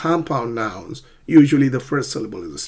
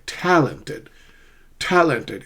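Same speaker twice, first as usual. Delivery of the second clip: "Talented" with TAL strong; front-stressed "Talented", rest light; primary stress; slower than usual. Shown as a demonstration. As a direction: hit the first syllable of "Talented". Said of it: "is primary stress".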